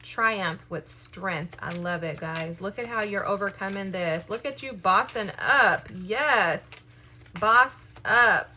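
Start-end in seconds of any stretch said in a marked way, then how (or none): 4.3-8.5 louder, punchy encouragement; rallying the viewers, a loud boss-up cry; loud hype call. Real, not acted. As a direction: shout it out like a cheer. Hyping viewers up, calling out.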